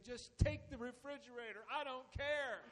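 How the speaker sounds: desperate giving in. Retold or imitated. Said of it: "just in desperation".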